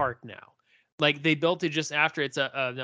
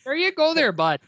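a higher, louder hick chirp; Letterkenny chirp; 12 semitones higher, 6 dB louder than usual. Acted. Wrapping up his Letterkenny bit with a higher, cocky chirp. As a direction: toss it off like a cocky Canadian bud. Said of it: "you get that New Jersey attitude".

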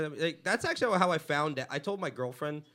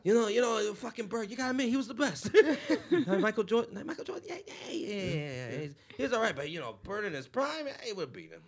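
mock Boston accent; 4 semitones higher, 5 dB louder than usual. Boston guy on Celtics.

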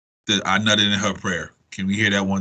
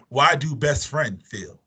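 laughing repeat; 3 semitones higher, slower than usual. Real, not acted. Teasing repeat of question.

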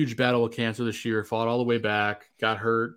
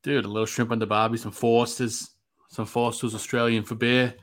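put-on Australian accent. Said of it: "Hey, you're not bad at that".

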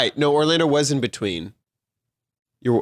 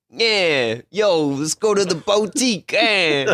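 put-on tacky New England accent; slower than usual.

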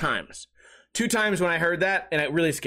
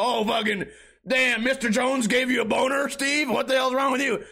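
higher teasing schoolkid jeer; mocking classmates; 5 semitones higher than usual. Classmates mock the boy in trigonometry class, teasing. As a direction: taunt him like a classroom of kids. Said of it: "everyone's gonna go".

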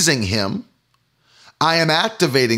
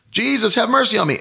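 crying out; 8 semitones higher, faster than usual. Acted. Beggar crying out.

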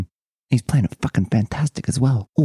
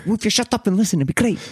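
put-on higher-pitched, loosely Italian accent; changed accent, supposedly Italian; 6 semitones higher than usual. Telling a friend to listen to the concert, in a slipping Italian accent. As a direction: slip into a rough Italian accent. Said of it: "I don't know why I changed my accent".

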